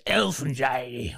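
lightly hammed-up orc from a fantasy film; mock orc impression. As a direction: croak it like a comic orc. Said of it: "sounded like a orc".

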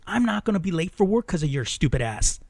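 fed up and emphatic; irritated scolding. Retold or imitated. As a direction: imitate a man berating his girlfriend. Boyfriend berates her, retold.

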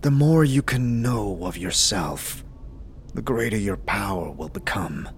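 a low, grave mentor voice; low solemn monk. Acted. GM as Dakon counselling the player, low and grave.

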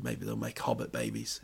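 muttered low joke; quiet low aside. Retold or imitated. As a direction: say it low under your breath. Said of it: "but I said".

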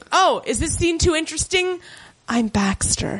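mock the maid with a strange half-Irish lilt; weird accent. Mocking the lurking maid on the show in a weird accent. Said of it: "That was a weird accent".

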